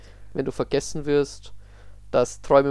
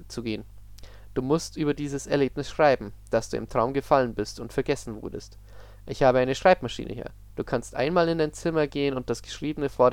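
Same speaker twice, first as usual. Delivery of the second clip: even, measured storytelling voice for an eerie tale; story narration. A narrator's reading. Reading an eerie story aloud to Susanne, calm narration.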